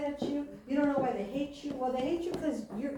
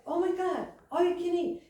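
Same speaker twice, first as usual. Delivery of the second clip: lightly imitated excitement, pitched up; hyper, excited; 4 semitones higher than usual. Retelling Emmy's delight at the buffet, mildly excited imitation. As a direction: mildly mimic a hyper passenger. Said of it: "they're hyper in the car".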